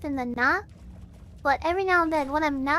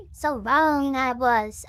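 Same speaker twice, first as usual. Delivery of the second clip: preacher; 3 semitones lower, much slower than usual. Shown as a demonstration. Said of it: "preacher voice".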